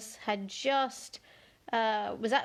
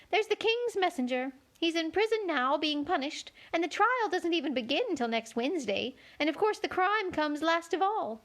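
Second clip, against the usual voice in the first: high, fussy White Queen; 6 semitones higher than usual. A narrator's reading. Queen corrects Alice in a high fussy voice. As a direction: pitch the Queen up high and flustered.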